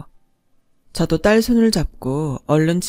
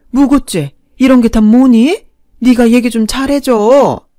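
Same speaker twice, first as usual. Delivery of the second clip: pleading; 3 semitones higher, 5 dB louder than usual. Retold or imitated. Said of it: "사정하더라고요".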